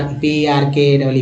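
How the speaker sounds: slow letter by letter spelling. Shown as a demonstration. Teacher spells पार्की for students, slowly. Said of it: "पार्की है ना".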